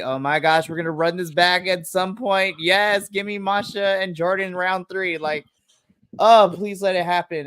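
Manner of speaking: excited fan pleading for a rematch; retold inner glee, eager; gleeful. Recalling a fan's inner reaction to a rematch tease, gleeful. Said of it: "clapping gleefully on the inside".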